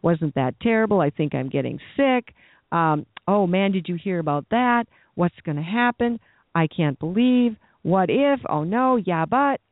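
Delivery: lightly mocking complainer; mock whining. Pastor mimicking churchgoers' negative talk, mock whining. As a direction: mimic a mild self-pitying moan. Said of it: "complain and whine and rehearse the problem".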